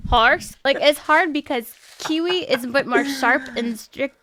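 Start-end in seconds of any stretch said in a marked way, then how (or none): 0.1-0.5 laughing Australian-accent attempt; drawn-out mock Australian hoot; Australian owl. Friend attempting the owl trend, laughing Australian accent. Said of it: "Australian is a bit more longer out".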